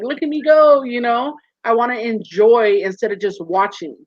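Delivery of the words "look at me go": higher and louder, mock thrilled; an imagined shout of joy, higher and louder; gleeful. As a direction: show off on the water, pitched up. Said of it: "be like".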